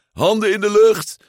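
a pull-string cowboy talking through a small speaker; crackly recorded voice box. Acted. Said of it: "krakend opgenomen bericht".

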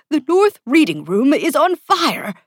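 high, loud cry of alarm; anxious, urgent and high-pitched; panicked. A narrator's reading. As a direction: report disaster in a panic. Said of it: "the most anxiety-prone".

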